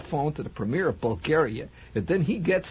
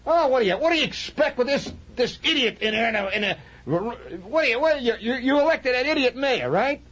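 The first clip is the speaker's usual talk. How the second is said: Slav voice; 12 semitones higher than usual. Retold or imitated. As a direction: complain like a know-it-all. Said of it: "What does he say?".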